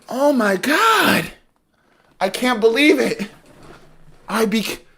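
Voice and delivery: high, very slow, drawn-out exclaim; dramatic disbelief. Real, not acted. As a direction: stretch it out in mock despair.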